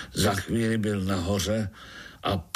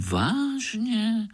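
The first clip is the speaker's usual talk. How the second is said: put-on a child spider suddenly amazed; 14 semitones higher than usual. A narrator's reading. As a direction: squeal the question in astonishment. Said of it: "podivil se Pája".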